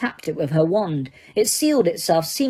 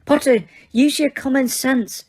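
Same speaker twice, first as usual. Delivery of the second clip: higher, louder brisk rebuke; snapped; 7 semitones higher, 3 dB louder than usual. A narrator's reading. Teacher scolding Harry sharply, brisk and stern. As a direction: snap back to stern teacher. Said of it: "snapped Professor McGonagall".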